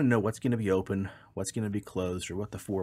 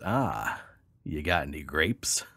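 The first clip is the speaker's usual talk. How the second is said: lower, slow knowing punchline; sly duck; 5 semitones lower, slower than usual. Acted. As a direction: lean in and land the punchline.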